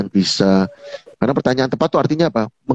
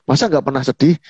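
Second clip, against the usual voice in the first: mock disbelief, pitched higher; judgmental questioning; 5 semitones higher than usual. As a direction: imitate a questioner who has already judged. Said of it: "intonasinya intonasi bertanya, tetapi lebih ke penghakiman".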